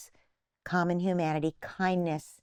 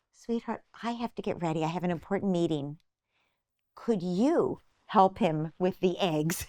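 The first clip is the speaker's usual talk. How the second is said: gentle request. Retold or imitated. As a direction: ask nicely, no fight in it. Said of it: "asking in a way that doesn't create a fight".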